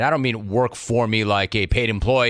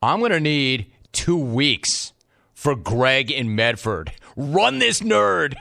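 slow, mocking caller drawl; 2 semitones higher, slower than usual. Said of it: "Jamie in Green Bay".

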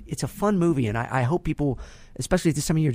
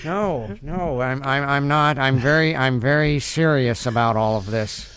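Jay Baruchel as Marty McFly. Acted. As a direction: stammer in disbelief as young Marty. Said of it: "Jay Baruchel is Marty McFly".

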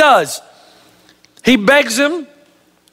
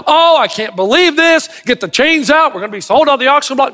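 panicked wife; 4 semitones higher than usual. Acted. Wife panics at bad news.

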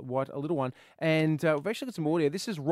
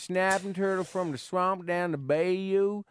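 put-on mild southern accent. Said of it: "how's your southern accent there".

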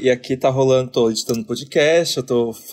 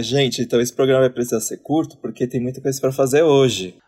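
reasonable, understated heads-up; intended mild intonation. Shown as a demonstration. Colleague showing the group how the message was meant, mildly. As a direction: read the message without any rudeness. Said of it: "porque a minha entonação é".

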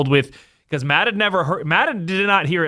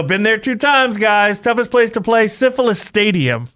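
caller voice; 5 semitones higher than usual. Retold or imitated. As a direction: ham it up as a caller. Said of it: "you go".

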